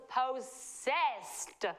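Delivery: drawn-out Southern "possessed"; Southern American accent. Acted. Host warning about the car, Southern accent. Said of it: "sound a bit American".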